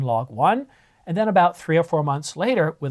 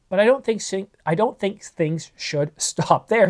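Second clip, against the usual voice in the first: cold numb mouth, words stumbling; frozen mouth; 3 semitones higher than usual. Real, not acted. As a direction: struggle to speak with a freezing mouth. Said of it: "Sorry, I'm having trouble speaking".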